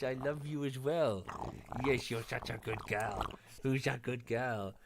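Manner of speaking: slow, doting coo to a dog; drawn-out sweet talk for a pet. Real, not acted. Streamer coos slowly to his dog on his lap.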